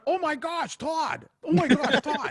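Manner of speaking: high mock gasping onlookers; lightly voiced amazed crowd. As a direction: gush like awed bystanders. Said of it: "people are watching and going".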